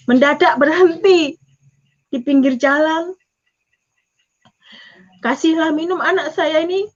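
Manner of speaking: usual speaking voice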